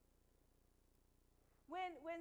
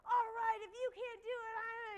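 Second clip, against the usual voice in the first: loud, higher trainer yell; 6 semitones higher, 7 dB louder than usual. Retold or imitated. Trainer threatening to kick people out, yelling. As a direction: shout the threat. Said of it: "and she's yelling".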